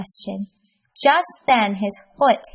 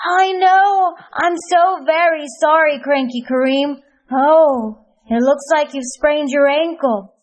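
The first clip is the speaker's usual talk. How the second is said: high, alarmed apology; worried Healthy Hassan; 5 semitones higher, 4 dB louder than usual. Acted. Hassan checking on Kareem, high worried voice. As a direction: rush in concerned.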